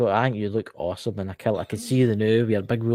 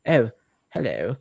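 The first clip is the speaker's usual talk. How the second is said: posh Edinburgh. Retold or imitated. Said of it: "Edinburgh people have got a kind of posh accent".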